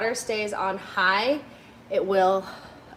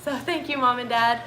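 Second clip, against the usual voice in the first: teary; 2 semitones higher than usual. Real, not acted. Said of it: "I did not think that I was gonna be crying today".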